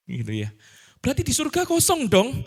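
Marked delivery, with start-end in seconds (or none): 1.0-2.3 a critic's taunting question, pitched up; mock objection. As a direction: throw the objection back, raised and mocking. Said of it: "ada tuduhan ya".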